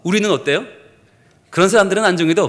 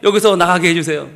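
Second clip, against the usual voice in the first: mock-urgent prayer, climbing at the end; acted prayer. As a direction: build to a begging shout for help. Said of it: "기도를 바꿨습니다".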